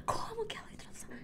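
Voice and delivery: gasp, then a high panicked whisper; frightened whisper. Acted. Mariazinha whispers in panic as the witch enters. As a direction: whisper in terror so the witch won't hear.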